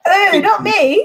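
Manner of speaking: high drawn-out ooh of denial; high slow ooh. Real, not acted. Reacting to the claim about fans.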